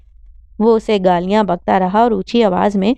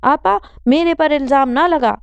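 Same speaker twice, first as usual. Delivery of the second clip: bossy retort; 6 semitones higher than usual. Acted. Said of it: "وہ روب سے بولا".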